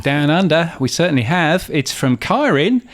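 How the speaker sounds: vague, not-quite-Australian accent, lightly put on; botched Australian accent. Co-host announcing a listener from Down Under, botched Australian accent. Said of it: "I'm not quite sure why I'm doing that accent".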